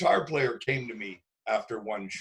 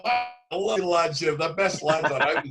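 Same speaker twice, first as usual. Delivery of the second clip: put-on excited kid's Scottish accent, a bit higher; eager fan gushing in a Scottish accent; 4 semitones higher than usual. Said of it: "he's got the accent down".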